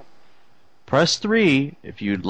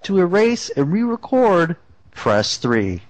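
answering machine voice. Pretend. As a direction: recite menu like a robot system. Fake voicemail menu.

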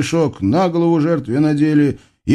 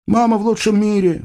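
вздох юноши; 9 semitones higher, faster than usual. Acted. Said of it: "вздохнул юноша".

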